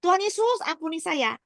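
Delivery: mock a high-pitched cry for mercy; imitated shout. Wife retells husband crying out to Jesus, imitated shout. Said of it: "saya cuma dengar suami saya teriak".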